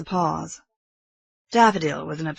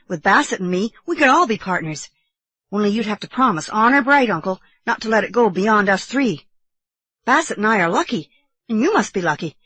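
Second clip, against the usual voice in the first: higher, louder eager youngster; earnest boy nephew; 5 semitones higher, 5 dB louder than usual. Acted. Boy inviting uncle into partnership, earnest. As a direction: make a child's solemn, eager proposal.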